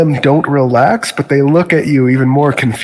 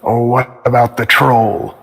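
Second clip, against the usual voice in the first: wolf in the back; 3 semitones lower than usual. Acted. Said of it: "One of them perks up in the back and says".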